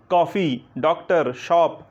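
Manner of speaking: कॉफ़ी डॉक्टर शॉप with the English open o; open o sound. Shown as a demonstration. Teacher modelling English loanwords to the class. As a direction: stress the borrowed open o in each word. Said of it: "अ का उच्चारण".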